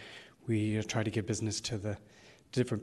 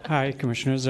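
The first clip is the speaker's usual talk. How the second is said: breathless after running upstairs; puffing between words, half laughing; out of breath; 4 dB louder than usual. Real, not acted. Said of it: "I'm a little out of breath".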